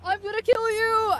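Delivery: drawn-out mock threat, high and very loud; Sam Hyde. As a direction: bellow it slowly like a hammed-up villain call-out. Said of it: "I read that in Sam Hyde voice".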